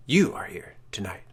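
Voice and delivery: unvoiced spectral whisper; ghostly whisper. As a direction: hiss it close and eerie. Wraith whispers.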